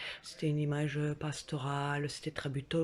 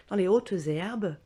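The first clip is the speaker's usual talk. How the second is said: builds higher and louder into a big dramatic climax; hammed-up battle tale; 5 semitones higher, 6 dB louder than usual. Telling viewers about the spider bite, hamming it up. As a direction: oversell the spider attack like an epic fight. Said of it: "j'en rajoute un tout petit peu".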